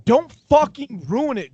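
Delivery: high, snapped mock anger; hammed-up irritation; mock-furious warning to cohost. Mock argument.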